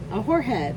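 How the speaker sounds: "whorehead" said with a w sound instead of the f in forehead; child's lisping mispronunciation. Retold or imitated. Grandma mimicking grandson's mispronounced forehead, childlike. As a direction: imitate a four-year-old saying "whorehead" for forehead. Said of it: "he can't say certain letters".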